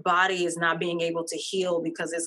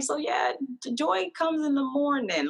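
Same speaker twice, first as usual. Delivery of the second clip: pitched way up, talking to a bouncing puppy; high sing-song to the dog; 9 semitones higher than usual. Retold or imitated. Owner greeting her excited dog at six, high sing-song. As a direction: coo it at the dog in a much higher voice.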